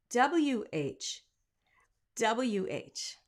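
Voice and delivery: whispered letters; whispering. Real, not acted. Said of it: "whispered aside".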